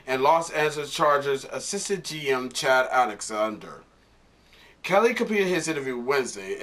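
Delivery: article read-out, evenly delivered; reading news aloud. Real, not acted. Vlogger reading the coach firing report to viewers, news read. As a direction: read a sports report off the page.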